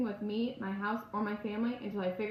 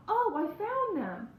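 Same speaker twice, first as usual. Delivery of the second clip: high, loud, slow blurted cry; near scream; 10 semitones higher, 4 dB louder, slower than usual. Acted. Teen blurting to her mom that she found them, almost screaming. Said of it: "I practically scream".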